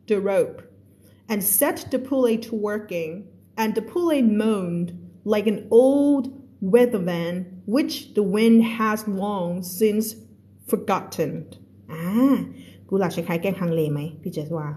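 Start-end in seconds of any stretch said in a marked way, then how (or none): 0.1-11.3 slow, careful read-aloud of a novel; teacher reading a story to a class. A narrator's reading. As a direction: read the passage slowly for learners. Reads The Little Prince aloud.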